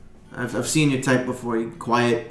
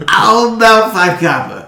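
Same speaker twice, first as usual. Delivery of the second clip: higher, louder, slow sly offer; Boblin haggling; 9 semitones higher, 11 dB louder, slower than usual. Acted. Boblin haggling with the stable hand, slow, high and loud. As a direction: lowball him slowly and cheekily. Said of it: "he goes".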